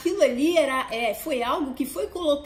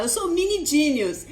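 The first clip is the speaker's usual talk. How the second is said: imitating her daughter; 3 semitones higher than usual. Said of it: "eu vou falar igual a minha filha".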